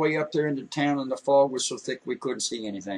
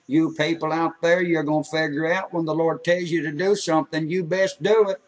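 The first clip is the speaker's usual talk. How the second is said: put-on old man preaching. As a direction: lay down the law like a country preacher, raised voice. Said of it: "He said".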